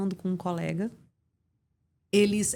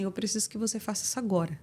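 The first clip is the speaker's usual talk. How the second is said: quick, softer matter-of-fact request; low-key instruction; 4 dB quieter, faster than usual. Shown as a demonstration. Doctor asking a nurse during a shift, low-key instruction. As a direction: say it briskly, without pushing. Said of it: "Cada uma teve uma entonação".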